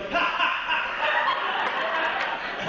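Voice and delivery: imitated off-mic laughter; a hint of a director's laugh; lightly voiced laugh; director laughing offmic. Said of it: "It's like".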